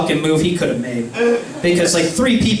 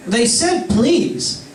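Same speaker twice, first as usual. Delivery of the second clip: slow, laughing through the words; laughing disbelief; 3 semitones higher, much slower than usual. Retold or imitated. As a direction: giggle at the silly note. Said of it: "I'm like".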